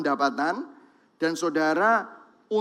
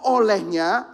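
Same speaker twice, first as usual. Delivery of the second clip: loud group Bible reading; congregation reading aloud; 4 semitones higher, 5 dB louder than usual. Real, not acted. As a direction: read it together, steady and strong. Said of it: "kita baca sama-sama ya".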